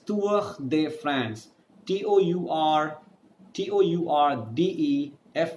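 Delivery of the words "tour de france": Tour de France with French r in Tour; French race name. Shown as a demonstration. Teacher naming the race for students, French pronunciation. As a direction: end Tour on a throaty French r. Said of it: "It is called as".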